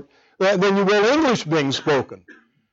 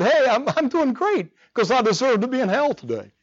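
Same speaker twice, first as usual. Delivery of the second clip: cheerful, smiling reply, slightly higher; with a smile; 4 semitones higher than usual. Retold or imitated. Pastor answering a neighbor's greeting, smiling. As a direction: say it brightly while smiling. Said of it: "I said it with a smile".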